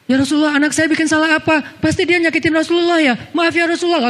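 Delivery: high, flustered apology; anxious apologizing father. Acted. Umar apologizing to the Prophet for his daughter, high and flustered.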